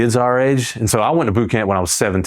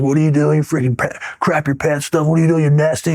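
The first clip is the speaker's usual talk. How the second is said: imitating a yell; 7 semitones higher than usual. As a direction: bark it like a disgusted drill instructor, pitched way up. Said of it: "yelling out".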